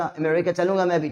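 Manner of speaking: "अमेरिका" with a short unstressed first 'uh'; America pronunciation demo. Shown as a demonstration. Teacher showing how to say "अमेरिका", first vowel reduced. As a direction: open "अमेरिका" on a light schwa. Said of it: "not अमेरिका".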